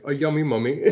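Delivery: hammed-up British accent, laughing. Riffing on British mummies, hammed-up British voice. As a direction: play up a silly British accent. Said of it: "British voice, where it's like".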